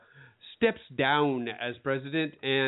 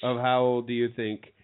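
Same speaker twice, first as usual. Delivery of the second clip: put-on British accent. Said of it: "I'm not quite sure why I'm still doing a British".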